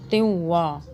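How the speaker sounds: त्युवा with the n only a nasal hum; partial noon. Shown as a demonstration. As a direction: glide through त्युवा without a full n. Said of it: "नून पूरा नहीं पढ़ा जाएगा".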